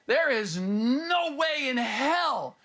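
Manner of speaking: slow emphatic. Acted. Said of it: "whether I say it in this voice".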